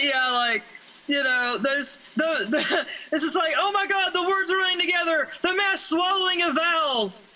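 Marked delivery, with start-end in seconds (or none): 3.6-7.2 hammed-up dismay, rattled off; exaggerated outrage in a raised pitch; mock horror. Reacting to words running together, mock horror.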